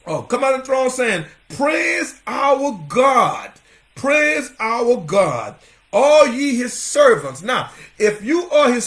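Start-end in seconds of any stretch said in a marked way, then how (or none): 1.5-7.4 very slow, stretched-out preacher's call; proclamation. Retold or imitated. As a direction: proclaim it grandly, holding each word. Proclaims the voice from the throne.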